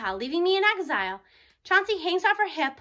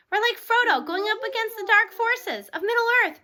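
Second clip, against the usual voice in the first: higher, louder and slow, like an epic vow; grand declaration; 5 semitones higher, 4 dB louder than usual. Acted. Mateo rallies his classmates, grandly declaring. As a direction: declare it like a hero setting out. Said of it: "Mateo declared".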